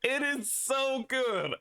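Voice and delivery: high, slow, soft falsetto cartoon villain; mimicking the Skeletor voice. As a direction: savour each word in a squeaky villain voice. Streamer mimics Skeletor clip voice.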